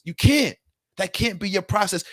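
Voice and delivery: insistent cry that you can't; worked-up outburst. Real, not acted. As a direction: hit it hard, fired up. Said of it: "I'm getting so worked up".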